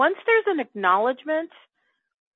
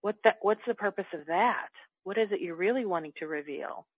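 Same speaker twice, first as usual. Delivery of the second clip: gentle, softer self-talk; softly; 5 dB quieter than usual. Retold or imitated. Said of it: "I'll talk to me softly".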